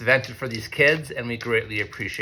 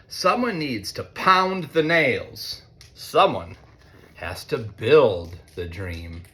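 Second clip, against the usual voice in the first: put-on reading to children; much slower than usual. A narrator's reading. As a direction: lean into the refrain slowly. Reads picture book to students.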